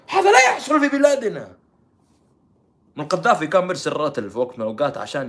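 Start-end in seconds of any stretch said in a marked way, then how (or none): 0.1-1.6 high, loud cry of disbelief; hammed-up indignant denial; mock outcry. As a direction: imitate a scandalised protest. Mimics shocked denial.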